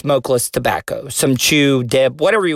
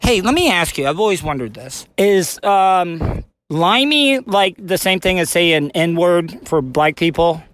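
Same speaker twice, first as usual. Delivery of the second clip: talking around a lip of chew; dip in lip; 2 semitones higher than usual. Real, not acted. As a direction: mouth full of dip tobacco. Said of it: "I have a dip in my mouth during this interview".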